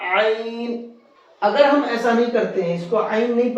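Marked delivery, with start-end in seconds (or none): 0.1-0.7 عین from mid-throat, lighter take; throaty ain. Shown as a demonstration. Teacher repeating the throat sound عین. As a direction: press عین from the throat again. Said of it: "حلق کا جو بیچ کا حصہ ہے وہاں سے".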